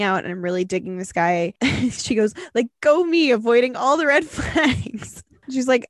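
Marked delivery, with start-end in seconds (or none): 2.5-5.2 raised pitch, mock self-congratulation; sarcastic self-cheer. Host reading out a listener mocking herself, sarcastic self-cheer.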